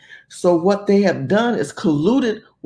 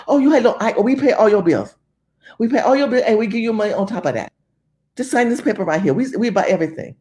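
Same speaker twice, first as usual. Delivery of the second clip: buyer's pitch; 3 semitones higher, faster than usual. Retold or imitated. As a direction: sweet-talk her into signing. Buyer voiced in story.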